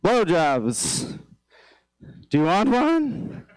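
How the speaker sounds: mock salesman pitch, slow and high on the offer; hammed-up pitch like a product demo. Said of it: "You don't wanna walk in like".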